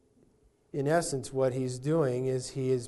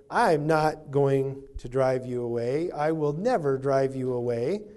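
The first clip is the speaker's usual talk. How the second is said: reassuring Jesus. Acted. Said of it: "he's saying".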